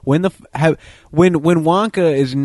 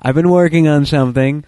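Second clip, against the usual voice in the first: lightly voiced boss rallying the workers, a bit louder; mock announcement to the crew, slightly raised; Willy Wonka; 3 semitones higher, 5 dB louder than usual. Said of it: "then he's like".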